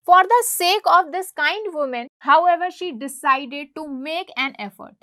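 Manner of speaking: slow, deliberate read-aloud of the English text; slow textbook reading. A narrator's reading. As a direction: read each word out slowly for the class.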